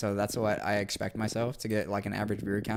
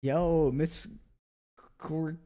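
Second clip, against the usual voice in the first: excited greeting; 6 semitones higher, much slower than usual. Real, not acted. Greeting a new follower, excited.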